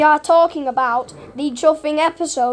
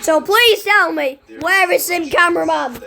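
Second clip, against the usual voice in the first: exasperated rant; 3 semitones higher than usual. Real, not acted. Fan demands a missing character's return.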